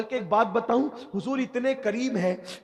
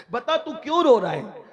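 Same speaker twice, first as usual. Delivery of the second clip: louder, higher urging; insistent questioning; 5 semitones higher, 6 dB louder than usual. Retold or imitated. Master urges weeping youth to speak, insistent questioning. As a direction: press the question with a raised voice.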